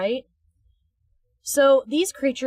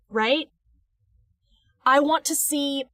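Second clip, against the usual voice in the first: usual speaking voice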